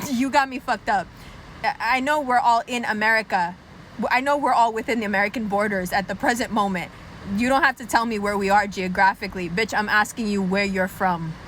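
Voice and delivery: insistent white questioner. Acted. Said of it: "'cause white people are like".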